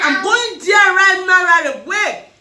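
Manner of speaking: slow, loud, excited call-out; excited shout. Real, not acted. Dressed in red, she shouts to viewers that she's heading to the party. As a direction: shout it out, thrilled to be going.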